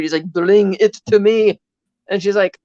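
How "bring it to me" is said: slow, drawn-out mildly angry quote; mock anger. Retelling Zukovsky demanding it back, mock anger. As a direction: imitate an angry demand, slowly. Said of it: "he gets angry".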